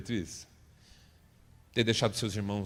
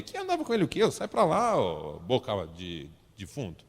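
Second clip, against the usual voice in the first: indignant denial; 3 dB louder than usual. Acted. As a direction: snap back, offended and defensive. Peter angrily denies knowing Jesus.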